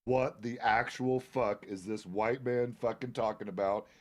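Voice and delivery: slow, mock-baffled inner voice; slow, lightly acted disbelief; imagined bewildered thought. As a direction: spell out the bafflement slowly, word by word. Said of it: "in his own mind, he's going".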